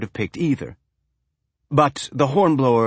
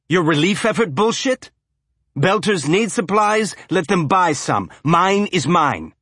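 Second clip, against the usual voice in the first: angry ship owner; 8 semitones higher, 3 dB louder than usual. Acted. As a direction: spit it out like a stubborn old trader. Owner ranting at captain.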